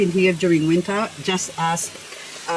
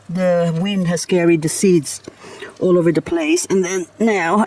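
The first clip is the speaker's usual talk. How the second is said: usual speaking voice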